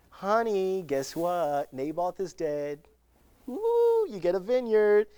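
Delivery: hammed-up delight at good news for him; gleeful wife. Jezebel telling husband Ahab the vineyard is his, gleeful. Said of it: "Jezebel comes up to her husband".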